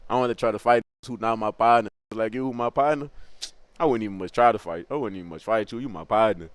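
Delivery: low, soft retold excuse; placating. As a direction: talk your way out, voice dropping away. Retells placating the cousin.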